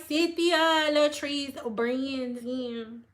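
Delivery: very slow self-introduction; playfully drawn-out name. Acted. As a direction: stretch each name out, longest on "Brandon". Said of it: "That's how I say my last name".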